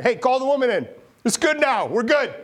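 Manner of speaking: high, loud burst of relief; relieved excitement. Acted. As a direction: call out, overjoyed it worked. Elisha relieved after miracle.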